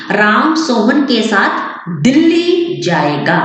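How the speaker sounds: दिल्ली said slowly with a lift; stress on Delhi. Shown as a demonstration. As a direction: lean on दिल्ली in a slow sentence. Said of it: "दिल्ली के ऊपर ज्यादा stress पड़ा".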